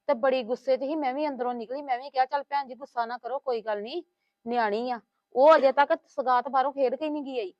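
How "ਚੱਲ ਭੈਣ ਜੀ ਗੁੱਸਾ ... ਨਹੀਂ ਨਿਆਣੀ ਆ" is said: softly quoted reassurance; retold soothing. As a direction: recount how you calmed her, voice lowered. Retells herself soothing the angry neighbour. (ਹੌਲੀ ਜਿਹੀ ਸਮਝਾਉਣ ਦੀ ਨਕਲ)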